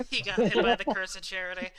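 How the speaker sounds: loud words through laughter; laughing. Real, not acted. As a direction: crack up while saying it. Laughing at the mishap.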